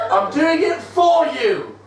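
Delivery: hammed-up villain shout. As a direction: bellow it like a mad scientist. Villain shouts his motive.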